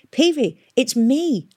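high, loud, slow call. A narrator's reading. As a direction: hail him, grinning. Hester calling to Peavy.

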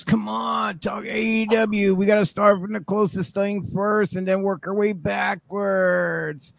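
shrill high nagging mom; seventies mom voice. Acted. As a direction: yell like a seventies sitcom mom. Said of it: "Why do I sound like the mom from the seventies".

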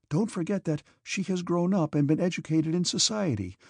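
put-on gentle young woman voice. Princess Mary pleading gently.

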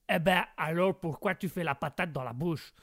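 comic American character speaking French; American accent. Acted. American character challenges the host's accent, exaggerated American accent. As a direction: question incredulously in a put-on American accent. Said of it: "les accents de Guégué".

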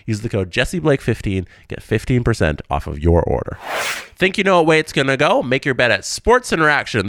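upbeat sponsor read. Acted. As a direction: read it like a podcast ad. Host reads sponsor ads.

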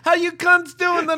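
high, hammed-up club comic greeting; mock comic opener. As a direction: play a brash comic working the room.

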